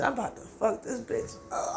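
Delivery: soft, breathy whispered threat; a muttered whisper, half joking; mock threat. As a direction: hiss the threat under your breath. Retelling a character's threat.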